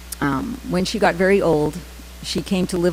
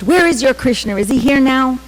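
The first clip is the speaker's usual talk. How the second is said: higher, louder retold challenge; challenging; 7 semitones higher, 5 dB louder than usual. Dying mother challenges her son's faith, challenging. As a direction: demand it as a sceptical mother. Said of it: "she challenged".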